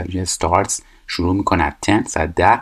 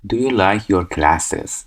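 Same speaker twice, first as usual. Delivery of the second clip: 1 slow gapped question; much slower than usual. Shown as a demonstration. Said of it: "کلاساتو چی رو دوست داری".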